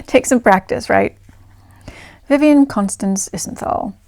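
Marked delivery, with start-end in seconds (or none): 2.3-3.9 put-on London RP accent. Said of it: "put on my, my best London received pronunciation accent".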